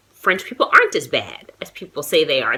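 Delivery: whispered like a secret; hushed aside to the viewer; confiding whisper. Real, not acted. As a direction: let them in on it under your breath. Confiding the waitress's admission.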